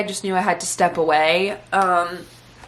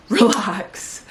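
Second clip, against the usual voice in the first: laughing at herself. Real, not acted. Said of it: "Like, stop, Malia".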